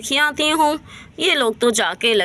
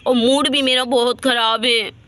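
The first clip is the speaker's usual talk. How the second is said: weary and tearful, almost crying; tearful grumble. Acted. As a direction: complain with a sob in the voice. Tired mother, grumpy, half crying.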